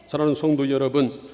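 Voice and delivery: ordinary talk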